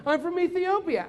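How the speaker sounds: lilting mock Ethiopian accent; Ethiopian cab driver. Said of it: "And the guy was like".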